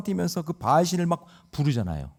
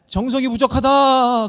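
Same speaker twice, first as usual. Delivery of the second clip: higher, louder, slowed mock shaman verdict; mock shaman intoning; 9 semitones higher, 6 dB louder, slower than usual. Preacher mocks a shaman to the congregation, slow hammed-up intoning. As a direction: ham up a shaman demanding more offerings. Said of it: "그러면서 막 귀신이 왔다고".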